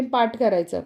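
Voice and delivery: ordinary delivery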